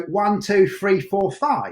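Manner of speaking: southern accent count, "three" as "free"; dropped T's and H's. Shown as a demonstration. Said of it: "We didn't have any T's or H's".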